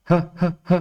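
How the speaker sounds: put-on short isolated "ہ، ہ، ہ", like a lisping child; lisping baby-talk sound. Shown as a demonstration. Teacher showing parents the letter's sound, lisped "ہ، ہ، ہ". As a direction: say "ہ" three times in separate little puffs, childlike. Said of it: "یعنی کہ توتلی زبان".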